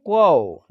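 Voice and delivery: कौ said as kau with an open au glide; kau sound. Shown as a demonstration. Teacher showing students how कौ is spoken. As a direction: carefully sound out कौ. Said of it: "तो इसका उच्चारण होगा".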